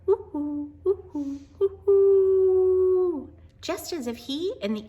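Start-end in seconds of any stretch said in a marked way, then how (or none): 0.1-3.3 high, loud hoots, last one long; father calling back to the owl, loud hoots. Acted. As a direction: call back to the owl like you're talking. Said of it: "Then he called back".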